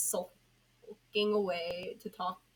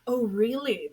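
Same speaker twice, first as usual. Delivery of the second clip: drawled; 4 semitones higher, 10 dB louder than usual. A narrator's reading. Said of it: "The being drawled".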